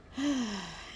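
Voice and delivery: short audible sigh. Real, not acted. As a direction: sigh after a flubbed reading. Flubbed reading aloud.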